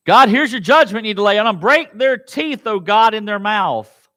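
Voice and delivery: a hint of David begging God; David pleading. Preacher voicing David asking God, mildly pleading. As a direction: speak as David crying to God.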